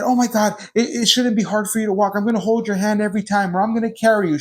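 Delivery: mock alarmed parent rushing to a fallen toddler; fussing overprotective parent. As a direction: fret over her as if she's badly hurt. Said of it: "made a scene and said".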